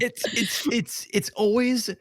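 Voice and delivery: words broken by laughter; laughing. Real, not acted. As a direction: laugh while you talk.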